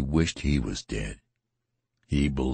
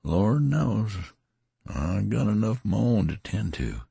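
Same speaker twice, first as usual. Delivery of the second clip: touch of despair; 7 semitones higher than usual. A narrator's reading. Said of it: "a little accent of despair".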